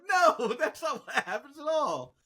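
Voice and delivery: high, imitated kids setting someone straight; kids' mock protest. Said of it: "They're like".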